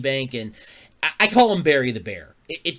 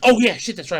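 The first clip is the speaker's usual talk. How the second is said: surprised; 8 semitones higher, 7 dB louder than usual. Retold or imitated. Sudden remembering, louder.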